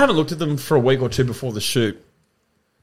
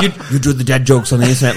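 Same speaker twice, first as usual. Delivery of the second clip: mock bouncer, laughing; 8 dB louder, faster than usual.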